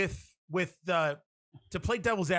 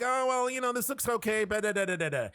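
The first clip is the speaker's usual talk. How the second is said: imitated poo-pooing, pitched up; mock dismissive; 5 semitones higher than usual. Audiences poo-pooing a new movie, mock dismissive. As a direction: brush it off in a higher voice. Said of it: "They poo-poo it".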